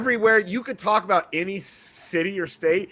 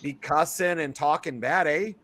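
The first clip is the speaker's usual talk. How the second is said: playful put-on Canadian accent; joking Canadian lilt with rounded vowels; Canadian-Midwestern accent. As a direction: talk in a folksy Wisconsin-Minnesota accent. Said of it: "in those kind of accents".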